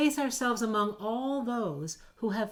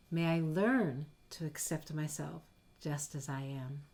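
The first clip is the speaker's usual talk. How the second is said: soothing phrases; 3 semitones lower, 4 dB quieter than usual. Shown as a demonstration. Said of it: "here are some to try out".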